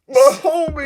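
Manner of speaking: high loud cry of joy; excited shout. Retold or imitated. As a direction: yell it out to a friend. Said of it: "and I was like".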